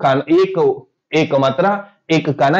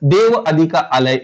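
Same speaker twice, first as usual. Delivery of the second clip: slow example; slower than usual. Shown as a demonstration. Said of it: "उदाहरणार्थ".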